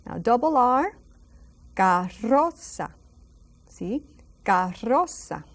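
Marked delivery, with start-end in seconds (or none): 1.8-2.9 carroza with a strong rolled RR, slow; rolled double R. Shown as a demonstration. Teacher demonstrating a rolled R: carroza. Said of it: "It's a very strong R". 4.5-5.4 carroza with a strong rolled RR, slow; rolled double R. Shown as a demonstration. Teacher demonstrating a rolled R: carroza. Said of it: "It's a very strong R".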